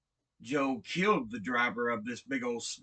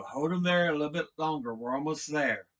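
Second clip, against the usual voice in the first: raised, higher, fast radio call; radioed order; 3 semitones higher, 4 dB louder, faster than usual. Retold or imitated. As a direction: retell an urgent order over the radio. Leader calling orders over radio.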